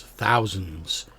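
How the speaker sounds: whispered sword voice in his head; voice of the Sun Sword. Acted. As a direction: breathe it like a voice inside the skull. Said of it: "you hear the voice of the Sun Sword".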